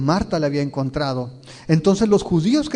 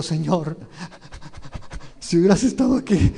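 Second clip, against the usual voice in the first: another tone. Shown as a demonstration. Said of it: "Con otro tono".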